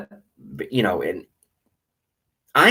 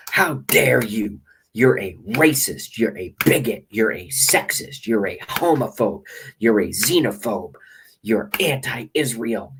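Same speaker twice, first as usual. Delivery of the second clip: mock outrage. Shown as a demonstration. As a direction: lecture him with fake outrage. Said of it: "I did it the wrong way".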